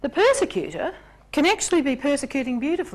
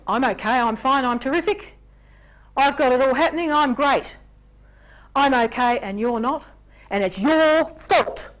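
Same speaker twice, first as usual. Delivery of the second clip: boastful blamer; 3 semitones higher, 4 dB louder than usual. Pretend. Persecutor voiced.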